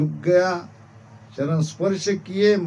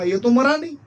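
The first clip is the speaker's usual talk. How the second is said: higher-pitched puzzled realisation; acted surprise; 7 semitones higher, 4 dB louder, faster than usual. Bandits watching the man after his meal, surprised. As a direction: react as if this was not expected. Bandits see he has not died.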